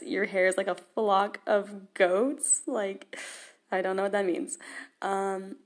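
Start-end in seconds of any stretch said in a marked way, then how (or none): 0.0-2.6 half-laughing, puzzled question; baffled quoting. Retold or imitated. Quoting the odd verse to viewers, baffled and amused. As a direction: repeat the verse with amused disbelief, ending on a rise. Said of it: "I have no idea what it's meaning".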